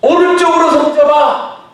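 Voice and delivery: high, loud call across water; shouted command. Acted. Jesus shouting to disciples which side to cast. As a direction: bellow the order to the boat.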